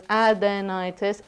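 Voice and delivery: adenitis sounded out evenly; careful pronunciation. Shown as a demonstration. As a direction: lay out "adenitis" syllable by syllable. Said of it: "the stress is on the ni".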